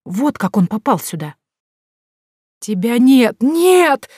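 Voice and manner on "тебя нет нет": loud, leaping high, pitiful; voice breaking into a scream. A narrator's reading. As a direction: crack into a desperate scream. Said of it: "Голос Кэра сорвался на крик". (голос срывается на жалобный крик)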